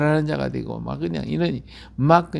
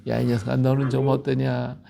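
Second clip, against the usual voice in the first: God's still small voice; 3 semitones lower than usual. Acted. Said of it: "하나님의 세미하시는 음성을 듣게 되잖아요".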